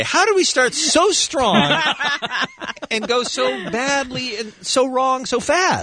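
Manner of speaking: laughing disbelief. Real, not acted. Host reacts laughing to bad joke.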